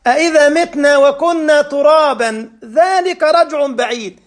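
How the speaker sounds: melodic tajweed chant; chanted Quran verse in a sermon; Quran recitation. Acted. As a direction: recite the verse with measured cantillation. Recites Surah Qaf.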